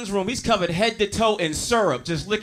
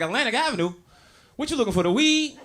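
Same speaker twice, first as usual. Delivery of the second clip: street dealer voice; 5 semitones higher than usual. Retold or imitated. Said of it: "This nigga was like".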